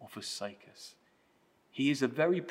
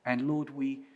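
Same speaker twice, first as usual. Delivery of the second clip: prayer. Real, not acted. Leads closing prayer.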